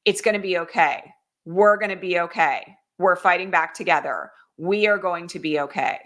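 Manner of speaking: calm her down gently; understated comforting promise; reassuring. Retold or imitated. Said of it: "incredibly reassuring and comforting moment".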